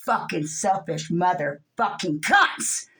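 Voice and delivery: loud, slow furious tirade at the powerful; angry rant. Real, not acted. Furious vlogger screams insults at the one percent. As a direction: hurl every insult with full rage.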